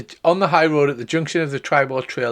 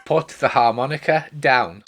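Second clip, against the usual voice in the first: ordinary talk, nothing marked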